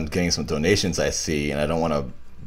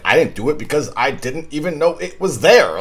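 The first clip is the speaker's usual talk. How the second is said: acted line reading; 7 semitones higher than usual. Shown as a demonstration. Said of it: "It sounded like a delivery".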